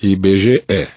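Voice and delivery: "I B G E" ending in an open "eh"; E aberto. Shown as a demonstration. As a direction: say the last letter of "I B G E" as open "eh". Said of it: "isso, com E aberto". ("I B G E" com E final bem aberto)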